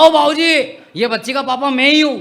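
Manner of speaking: put-on loud, annoyed call to the old man; indignant father shouting back; irritated retort. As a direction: snap back, offended. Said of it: "मेरा दिमाग खराब हुआ".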